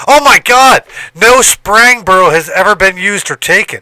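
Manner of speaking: over-the-top delighted shock; amazed. Retold or imitated. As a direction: gasp it out, thrilled. Amazed the name is free.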